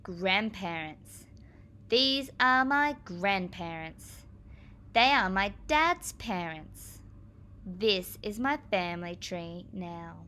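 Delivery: slow, careful picture-book read-aloud; reading to children. Acted. Teacher reading the aunts page slowly to her class. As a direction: spell out each page slowly for young ears.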